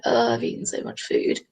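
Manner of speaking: breathy whispered cat voicing; lightly voiced lazy cat; sleepy stuffed cat. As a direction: murmur it like a cat too full to move. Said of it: "just like".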